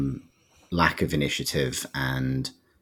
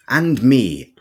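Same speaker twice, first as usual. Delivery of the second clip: laughing. Real, not acted. Laughing at the Santa bit.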